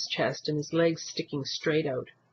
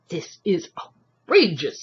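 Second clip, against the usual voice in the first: shout; 3 dB louder, slower than usual. A narrator's reading. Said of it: "someone shouted".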